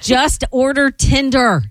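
lightly voiced fan sneering at the player; mock fan voice. Fans sneering at the athlete, lightly voiced mock jeer. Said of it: "they're all agreeing with us, going".

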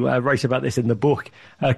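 ordinary talk

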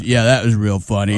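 suddenly very low, unamused deadpan; mock deep, cold put-down; Prince's dropped voice. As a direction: imitate a voice plunging deep to end the fun. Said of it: "his voice dropped ten octaves".

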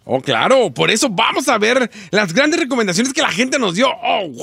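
alegría exagerada, aguda y alta; sobreactúa el entusiasmo con sarcasmo; entusiasmo sarcástico. Pretend. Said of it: "así quiero que suenes, pero sin sarcasmo". (emoción fingida con sarcasmo)

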